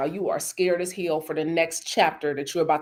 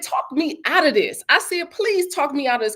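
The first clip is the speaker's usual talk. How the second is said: higher-pitched, urgent retold plea; retold pleading; 6 semitones higher than usual. Telling Carly to talk her out of this, pleading. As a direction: beg a friend in a raised pitch.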